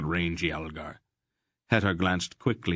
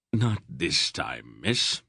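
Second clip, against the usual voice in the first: hint of iron; 3 semitones lower, slower than usual. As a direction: lay down the law gently but firmly. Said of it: "a hint of iron in his voice".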